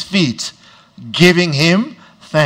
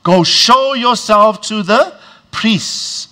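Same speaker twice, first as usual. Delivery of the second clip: slow, higher retold call across a distance; mock shout; 5 semitones higher, slower than usual. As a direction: call it out slowly as if across a field. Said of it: "he shouts".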